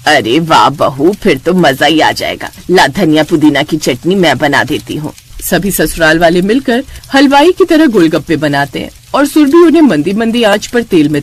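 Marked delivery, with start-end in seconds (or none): 0.1-5.1 put-on old mother-in-law pleased. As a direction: savour the treat like a pleased grandmother. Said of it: "माला ... कहती है".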